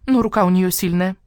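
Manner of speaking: high, eager hen voice; the hen boasting about her home; proud hen. Acted. Hen praises Nina. (гордая курица, голос выше)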